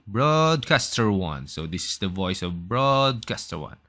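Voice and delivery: slow, stretched broadcaster delivery. Shown as a demonstration. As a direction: announce it slowly like a broadcaster. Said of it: "next naman natin yung pinaka-broadcaster". (mabagal na boses ng brodkaster)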